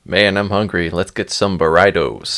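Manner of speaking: mock "burritos" as an actor with no Spanish would say it; non-Spanish mispronunciation. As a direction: say "burritos" in a clumsily anglicized way, as a joke. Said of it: "the way they would pronounce things".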